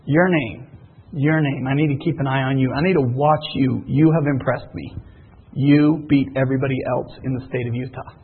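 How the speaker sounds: mock director voice. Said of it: "director sitting right here going".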